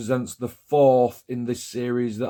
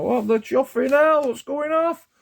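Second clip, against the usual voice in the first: retold shock; 12 semitones higher than usual. Decal breaking up, retold reaction.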